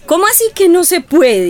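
indignant challenge. Acted. Neighbour challenges a prohibition.

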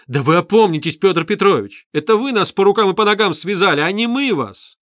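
high, loud indignant tirade; mother losing her temper completely; beside herself. A narrator's reading. Mother lashing out at Luzhin, loud and high. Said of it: "вышла из себя".

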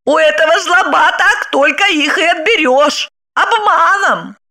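high, drawn-out, near-sung rapture; rapturous exclaim. Acted. Wife rhapsodises about her ex's love, high and rapturous. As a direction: swoon over him aloud. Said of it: "восхищённо ... воскликнула".

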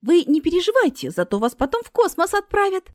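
high-pitched, chirpy reassurance; reassuring. A narrator's reading. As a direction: comfort her in a lifted voice. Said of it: "успокаивала её Марина".

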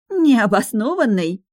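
high, slow, loud shriek. Acted. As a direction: squeal it in outrage. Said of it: "Алианна взвизгнула".

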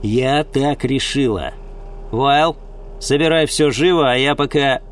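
curt, firm orders; a hint of icy authority; cold decision. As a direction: command the gang coldly. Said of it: "ледяному спокойствию".

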